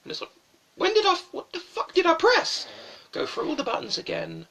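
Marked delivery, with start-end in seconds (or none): 0.8-2.7 loud, high exasperated yell; hammed-up gamer outrage; frustrated outburst. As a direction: cry out in baffled frustration at the controls. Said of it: "in frustration".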